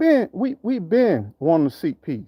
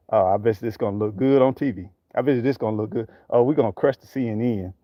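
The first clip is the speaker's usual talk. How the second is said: lower, smug mock voice of a showboat; mocking the showboating politicians; 9 semitones lower, 3 dB quieter than usual. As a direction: sneer at them, playing their vanity. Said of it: "just for likes and just for".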